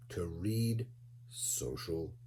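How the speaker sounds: a hushed, slowed-down dramatic whisper. Acted. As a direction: drop to a secret whisper for the big reveal. Dramatic hushed ending line.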